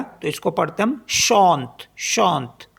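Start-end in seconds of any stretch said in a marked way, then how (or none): 1.1-2.7 शांत with a nasal vowel, final E silent; French chante, no final E; French pronunciation. Shown as a demonstration. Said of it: "ये भी silent हो जाएगा".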